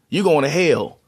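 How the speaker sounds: HELL said like "hail"; Southern-style HELL, sounding like "hail"; Southern pronunciation. Shown as a demonstration. Showing how the South says it, HELL as "hail". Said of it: "People in the South pronounce the word hell".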